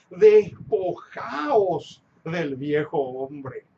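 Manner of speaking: deliberate verse reading, starting low and rising; scripture reading. Acted. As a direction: read the verse out solemnly, building to the end. Reads Bible verse aloud. (lectura solemne de las Escrituras)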